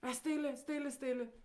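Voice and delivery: shushing parent. Retold or imitated. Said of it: "Vores forældre er".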